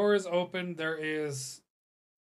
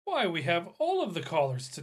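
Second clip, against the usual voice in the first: wrong Legancia voice; 2 semitones higher, 3 dB louder than usual. Acted. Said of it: "that's not her voice".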